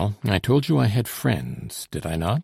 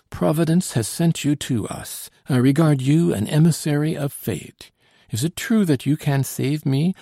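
higher-pitched, earnest nobleman; fervent seigneur; 6 semitones higher than usual. A narrator's reading. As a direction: address your rescuer with grateful fervour. Grateful nobleman greets his rescuer.

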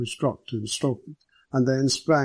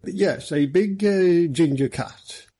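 higher, easygoing superintendent voice; easy, casual; 6 semitones higher, 3 dB louder, slower than usual. A narrator's reading. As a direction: carry on lightly, with a small hesitation. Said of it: "Holloway continued easily".

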